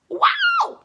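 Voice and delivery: high squeal from a sour taste; shocked by the sourness. Real, not acted.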